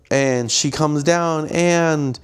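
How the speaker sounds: high, slow-starting storybook proclamation; fairy-tale montage voice. Acted. Fairy-tale montage offering marriage, high and theatrical.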